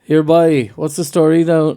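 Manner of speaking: badly faked Cork lilt; attempted Cork accent. Shown as a demonstration. Copying friend's demo, badly faked Cork accent. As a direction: have a shaky go at a Cork accent.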